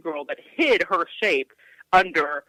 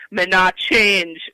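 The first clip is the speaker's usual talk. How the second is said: put-on slow, louder Antiguan-accented mother laying down the law; firm Antiguan mother; 6 dB louder, much slower than usual. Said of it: "she would say".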